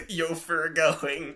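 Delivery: slow, lightly voiced villain line; mock menacing voice. Co-host mocking the fic's typo, slow and hammed-up. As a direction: read the typo slowly and ominously. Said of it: "it says".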